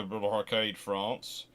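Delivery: ordinary talk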